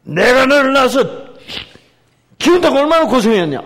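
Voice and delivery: loud, high, fast scolding; loud reproachful reading; scolding mother. Shown as a demonstration. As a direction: nag the child angrily. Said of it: "이렇게 얘기하셔도 돼요".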